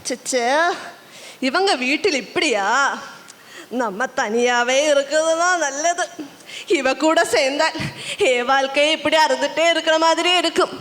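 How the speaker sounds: low, fed-up grumble to oneself; disgusted aside. Acted. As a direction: think aloud with weary disdain. Partner disgusted, mutters to self.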